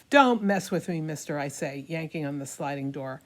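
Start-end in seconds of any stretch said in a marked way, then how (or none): 0.1-1.4 hammy stage actor. Acted. Defiant retort.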